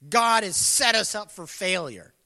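voiced as a loud complaint; indignant complaint. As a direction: throw the blame out loudly. Acting out Israel's complaint.

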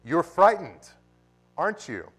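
a mocking devil needling the dying; preacher voicing Satan taunting the dying; Satan's taunt. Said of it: "Satan comes ... and say".

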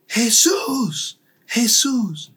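high, echoing call of "Jesús"; crowd calling out. Retold or imitated. The stadium crowd calling the name, high. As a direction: repeat the name like a vast crowd.

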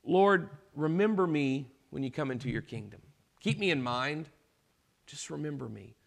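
quiet, humble plea that fades to almost nothing. Retold or imitated. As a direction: ask softly, as a dying man begging to be remembered. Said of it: "he says to Jesus".

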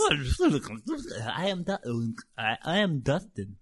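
stuttering, slowed robot loop; halting robot stutter; malfunctioning robot. Acted. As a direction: glitch on the name like a broken machine. Broken robot repeating its name.

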